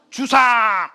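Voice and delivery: 크게 외치는 왕의 호통; 아들을 부르며 위엄 있게 꾸짖듯 외친다. Retold or imitated. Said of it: "태종이 있는 거예요". (큰 소리로 "주상!" 하고 외치는 태종)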